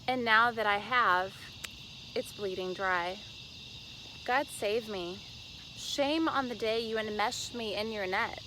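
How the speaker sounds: declaimed poem with punched line openings; dramatic poetry reading. Acted. Poet performs her fishing-metaphor poem, emphatic measured recital. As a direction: recite it emphatically, pausing between phrases.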